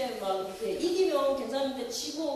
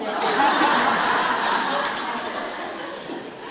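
loud unvoiced laugh bursting out; a real loud laugh out of breath; burst of laughter; 2 semitones lower, 10 dB louder than usual. Real, not acted. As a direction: crack up at your own slip. Laughs at her own slip.

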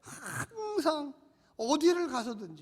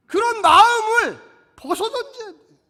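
rousing sermon cry; 10 semitones higher, 16 dB louder than usual. Acted. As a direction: lift the hall with the promise. Preaching at full force. (우렁찬 설교 외침)

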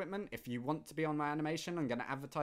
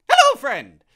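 very high, loud squeaky greeting; silly falsetto hello; high-pitched voice; 14 semitones higher, 22 dB louder than usual. Acted. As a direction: squeal it like a cartoon shopkeeper. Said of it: "That was a really high-pitched voice".

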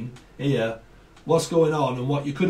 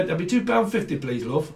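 put-on northern accent. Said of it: "when I moved up north".

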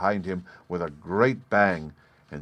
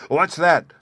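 much higher, much louder frightened cry; startled cry; 9 semitones higher, 8 dB louder than usual. A narrator's reading. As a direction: jolt awake in alarm. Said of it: "cried Schwartz".

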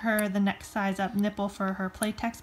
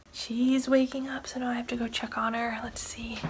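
urgent hushed whisper. Real, not acted. Mom whispering as her baby starts to stir. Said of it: "trying to be really quiet".

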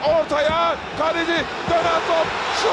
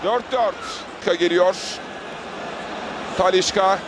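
screaming football commentator. Real, not acted. Penalty shootout commentary.

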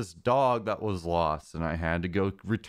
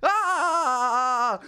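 much higher, louder mock scream; Charles scream; 12 semitones higher, 5 dB louder than usual. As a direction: yelp like the pop-up character. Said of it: "Charles guy's like".

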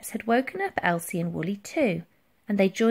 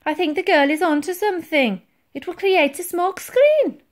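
high, loud, eager suggestion; earnest underling; 10 semitones higher, 6 dB louder than usual. A narrator's reading. Titch backs Elsie's idea to the admiral, earnest. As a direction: pitch the idea up to a superior. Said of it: "Titch timidly".

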